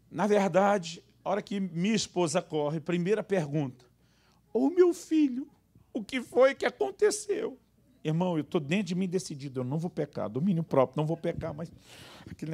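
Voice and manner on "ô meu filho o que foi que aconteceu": much higher, slow fussing mother voice; mother's concern. Retold or imitated. Wife coddling the fallen son, much higher and slow. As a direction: coo like a worried mom.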